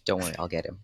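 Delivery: said softly after a shush; hushed. Acted. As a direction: keep it hushed and low.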